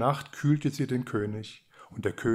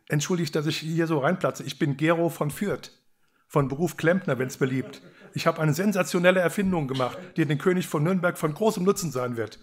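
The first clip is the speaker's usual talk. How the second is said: higher and louder, eager pitch; excited young inventor; 5 semitones higher, 3 dB louder than usual. A narrator's reading. Plumber pitching his invention to the king, excited. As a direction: sell the grand invention breathlessly proud. Inventor bursts in proudly presenting.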